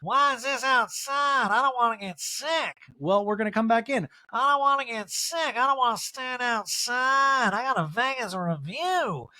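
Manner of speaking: high-pitched sulky complaining; Erica impression. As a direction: whine it out like a pampered diva. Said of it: "Erica's like".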